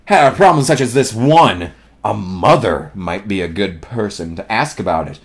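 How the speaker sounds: low, soft, ponderous voice; slow storybook donkey; slow gloomy donkey. A narrator's reading. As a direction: mull it over slowly and quietly. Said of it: "said Eeyore slowly".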